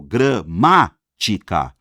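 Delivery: "Gramática" slowly as gra-MÁ-ti-ca, MÁ punched; stressed antepenultimate syllable. Shown as a demonstration. Teacher shows Álvaro the strong syllable in Gramática, slowly split. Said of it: "antepenúltima sílaba".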